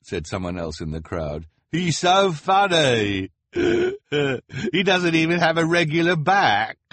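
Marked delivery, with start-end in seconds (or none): 1.7-6.8 very high, slow, giggly onlooker; high spectator voice. A narrator's reading. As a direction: gush like a cruel fan. Spectator mocks the hunchback.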